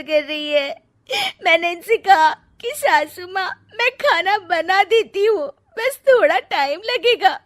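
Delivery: hammed-up fake sobbing complaint; fake crying. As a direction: put on fake tears for the husband. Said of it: "रोने का नाटक करने लगती है".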